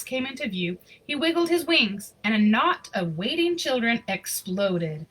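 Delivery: lively storybook reading voice; story narration. A narrator's reading. Reading a Christmas picture book aloud, storyteller voice. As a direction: read the story warmly to an audience.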